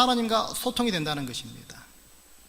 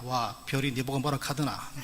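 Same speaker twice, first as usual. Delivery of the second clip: low, soft gruff Gyeongsang mutter; deadpan Gyeongsang man brushing her off; mock-gruff Gyeongsang husband; blunt Gyeongsang dialect; 5 semitones lower, 5 dB quieter than usual. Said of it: "경상도 분들이 이럽니다".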